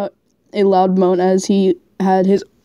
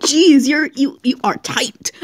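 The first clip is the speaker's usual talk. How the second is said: breathless whisper; 4 semitones higher than usual. Real, not acted. Laughing whisper during reading.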